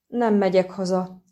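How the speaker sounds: a lightly voiced, understated gloomy resolve; gloomy but firm. A narrator's reading. Dainty declares to the dwarf, gloomy but firm. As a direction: state it grimly and decisively. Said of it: "jelentette ki komoran, de határozottan".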